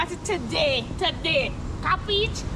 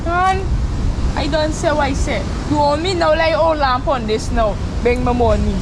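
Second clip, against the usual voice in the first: loud, heated demand for money; furious creditor shouting at debtor; angry shouting; 3 semitones lower, 8 dB louder than usual. Acted. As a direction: yell at him to pay up. Shouting argument over owed money.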